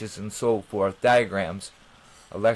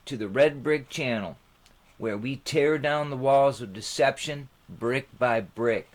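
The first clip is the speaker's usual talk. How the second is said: measured, slightly raised presenter read; channel intro read. Acted. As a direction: read the opening like a show host.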